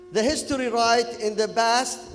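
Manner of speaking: broken Kuwaiti English, a bit loud. Retold or imitated. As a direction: read it in a Kuwaiti accent. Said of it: "talking, uh, Kuwaiti English".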